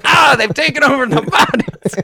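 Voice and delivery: high-pitched panicked movie voice; movie quote impression. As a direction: squeal it like the frightened character. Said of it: "From Scary Movie three, where he's like".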